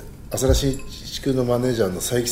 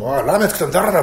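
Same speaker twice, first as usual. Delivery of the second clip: mock angry demand, pitched up; raised-voice imitation of a complaint; retold angry yell; 5 semitones higher, 4 dB louder than usual. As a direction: act out storming in to complain. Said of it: "下に怒鳴り込んでったんだよ".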